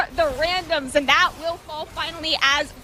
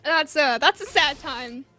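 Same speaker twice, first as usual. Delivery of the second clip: talking through hiccups; words broken by hiccups; 4 semitones lower than usual. Real, not acted. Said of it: "Excuse me, I have the hiccups".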